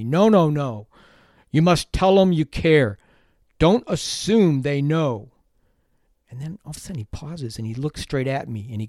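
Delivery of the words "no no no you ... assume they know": louder, slow and stern, drill-sergeant firm; stern scolding. Retold or imitated. Stoic mentor scolding the young teacher, slow and stern. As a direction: lay down the law slowly. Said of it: "he scolded me".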